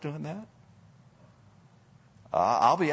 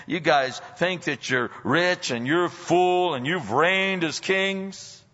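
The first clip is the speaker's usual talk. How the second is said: sarcastic quote; 5 semitones higher, 3 dB louder, slower than usual. Retold or imitated. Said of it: "the sarcasm here".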